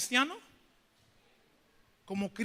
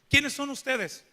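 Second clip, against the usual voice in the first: mock confrontational demand, higher and louder; 3 semitones higher, 5 dB louder, slower than usual. Preacher acting out an old man questioning his youth group, confrontational. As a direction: challenge them as if questioning intruders. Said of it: "confrontativo. Él dice".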